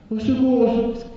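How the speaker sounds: high, loud squeaky cries for help; a terrified little mouse pleading; frightened mouse. Acted. The mouse begs the rooster for help, high and loud.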